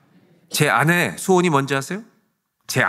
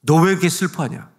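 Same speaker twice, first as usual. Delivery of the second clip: raised voice, imitating a scolding; mock reproof, pitched up; retold rebuke; 6 semitones higher, 6 dB louder than usual. Preacher quotes the Lord to a grieving pastor, retold rebuke. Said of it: "책망하시면서 말씀하시더래요".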